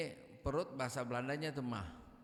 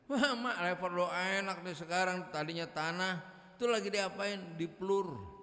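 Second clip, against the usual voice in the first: admiring villager; 5 semitones higher, 4 dB louder than usual. Acted.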